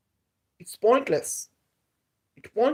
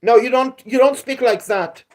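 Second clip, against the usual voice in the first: angry scolding; 4 semitones higher, 5 dB louder than usual. Real, not acted. Scolding a troll in chat.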